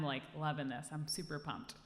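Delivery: ordinary talk, nothing marked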